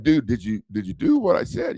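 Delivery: mild mock shout at the client; retold demand. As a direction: press him hard, voice climbing. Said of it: "I'm like".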